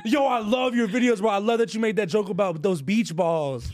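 imitating an overexcited fan; gushing fan. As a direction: gush like an excited fan. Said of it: "have you ever had somebody go".

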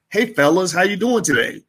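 breezy server's hello, lightly put on; cheery waiter greeting. Waiter greets two diners at Applebee's, mock-cheery.

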